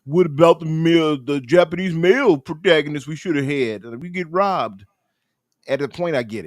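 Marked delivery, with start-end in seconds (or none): 0.1-4.9 high, loud whiny complainer; mock whining. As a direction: imitate a whining gamer, pitched up. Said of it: "people like whining".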